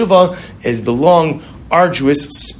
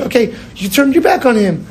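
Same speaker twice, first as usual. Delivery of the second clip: lifted urgent voice; 10 semitones higher than usual. Acted. Quoting the Baal Tanya, rising.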